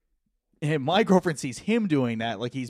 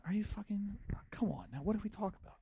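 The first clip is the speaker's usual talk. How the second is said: half-whispered, softer and higher, urgent; hushed hiss; 9 semitones higher, 11 dB quieter than usual. Retold or imitated. Boyfriend hissing at his girlfriend in a hushed, higher voice.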